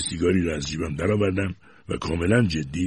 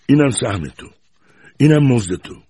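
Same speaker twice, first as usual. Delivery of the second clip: scolding grandmother; 6 semitones higher, 7 dB louder than usual. A narrator's reading. Grandmother shaking the boy angrily.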